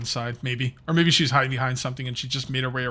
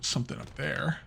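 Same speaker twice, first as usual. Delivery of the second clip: hiccups; 8 dB quieter than usual. Real, not acted. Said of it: "Oh, I got the hiccups".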